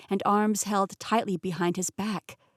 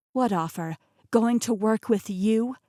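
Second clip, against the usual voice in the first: rising louder scoff; mock the very idea; 2 semitones higher, 4 dB louder than usual. Heroine scoffing at Rasputin's offer, incredulous. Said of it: "I scoffed".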